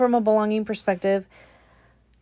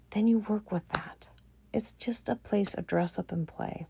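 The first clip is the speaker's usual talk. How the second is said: whisper; 7 dB quieter than usual. Real, not acted. Soft closing aside.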